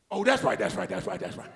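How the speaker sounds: dazed crackhead. Retold or imitated. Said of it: "he went just like this".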